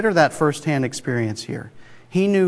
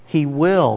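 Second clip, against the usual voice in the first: "will" pressed firmly, a sure falling stress. Shown as a demonstration. Preacher assuring the congregation, firm stress on "will". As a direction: hit "will" as certain, not might. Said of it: "not might".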